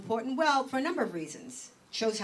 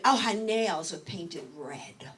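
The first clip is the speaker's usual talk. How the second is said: mock scandalized; slower than usual.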